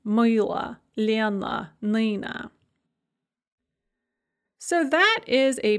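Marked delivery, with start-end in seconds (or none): 0.1-2.5 "Мила, Lena, Nina" each ending in a schwa; final uh sound. Shown as a demonstration. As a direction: say "Мила, Lena, Nina" separately, reducing the last vowel to uh. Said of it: "pronounced kind of an uh sound".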